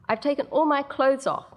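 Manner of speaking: put-on high little girl, defiant; defiant piping child. Six-year-old defies her mother through the door, high and piping. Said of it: "Mindy pipes, a defiant note".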